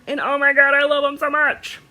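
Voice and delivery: gushing excitement. Real, not acted. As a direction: gush over a favourite purchase. Gushing over new needle minders.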